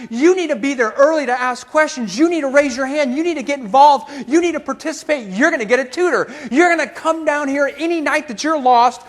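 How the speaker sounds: high-pitched, relentless string of orders; impassioned lecture. Retold or imitated. Professor orders failing student to accept help, impassioned.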